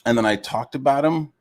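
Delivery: high, loud sarcastic mimicry of him; mock his innocent excuse in a high voice; mocking quote. Streamer mocks a rival's excuse, in a high sarcastic voice. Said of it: "It's like".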